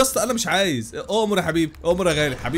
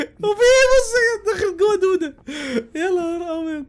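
shocked squeal; 11 semitones higher than usual. Real, not acted. Worm inside, shocked.

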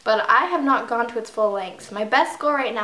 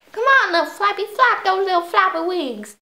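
high-pitched pleading encouragement; urgent cheering; 8 semitones higher, 3 dB louder than usual. Real, not acted. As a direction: urge the little bird along. Urging the game bird on.

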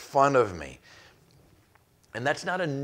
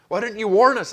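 accusing crowd; 8 semitones higher, 7 dB louder than usual. Retold or imitated. Townspeople blaming Jeremiah.

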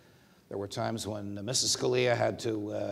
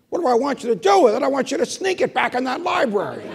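much higher and louder, fast; insistent Scalia; 10 dB louder, faster than usual. Retold or imitated. Scalia asking the judge to sneak the book back, high and loud. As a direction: demand it like it's obvious.

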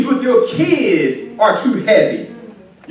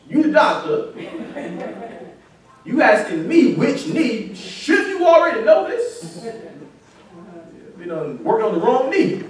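puzzled questioning with comic pauses; confused disbelief; 4 dB quieter than usual. Retold or imitated. Patient questioning the doctor about which knee, in confused disbelief. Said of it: "I was kind of confused".

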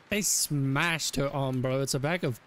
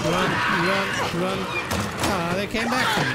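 being chased; 4 semitones higher, 4 dB louder than usual. Real, not acted. Fleeing monsters in game.

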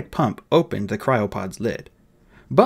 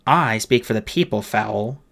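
testy. Acted. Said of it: "said Holly testily".

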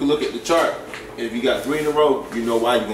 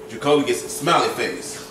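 laughing echo. Real, not acted. Child echoes dad's praise, laughing.

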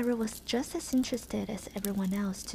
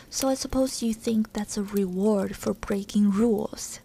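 angry; 5 dB louder than usual. Acted. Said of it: "came an angry voice".

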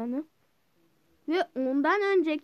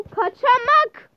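drawn-out high call; 9 semitones higher, 10 dB louder, slower than usual. Real, not acted. Gamer teasing himself about sneaky play, drawn out. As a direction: stretch the word high and slow.

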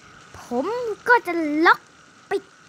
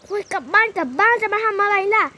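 higher, louder frantic urging; mock panic; 4 semitones higher, 5 dB louder than usual. Mother rushing the kids home, flustered. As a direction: hurry everyone home in a fluster.

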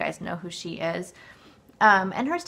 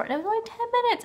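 incredulous; 4 dB louder, much faster than usual. Real, not acted. Disbelief at short workout.

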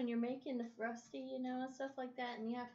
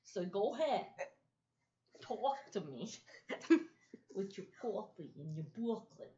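put-on New York accent. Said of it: "I'm an empath from New York".

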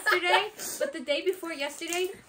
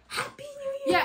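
retold cheer; 11 semitones higher, slower than usual. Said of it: "he was like".

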